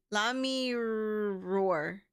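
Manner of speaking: "roar" eased into through a long R; drawn-out R. Shown as a demonstration. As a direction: roar with a slowly stretched R. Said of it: "The R confusing me".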